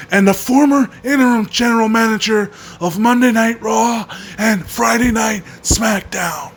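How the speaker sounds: a hint of a stiff official introduction; John Laurinaitis. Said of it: "do an impression of John Laurinaitis".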